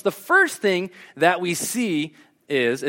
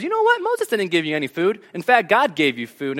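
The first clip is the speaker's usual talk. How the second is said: mock comeback; 3 semitones higher than usual. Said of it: "puts it back in their face".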